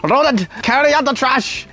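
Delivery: put-on high, haughty posh British accent; a lord ordering his servant in posh British. Ordering pet guinea pig servant, haughty posh British accent. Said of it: "I'll have a different accent then".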